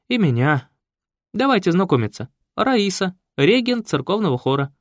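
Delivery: a hint of a fussy talkative woman; Raisa's voice.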